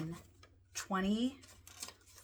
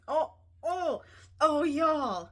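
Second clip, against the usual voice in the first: overjoyed cries; 8 semitones higher, 4 dB louder, slower than usual. Real, not acted. Overjoyed by the cash total.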